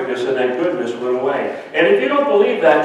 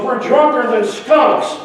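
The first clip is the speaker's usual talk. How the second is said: put-on a higher, slower toddler voice; 7 semitones higher than usual. Two-year-old topping his brother in the bath, slow and high. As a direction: draw it out like a tiny proud child. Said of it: "the two-year-old goes".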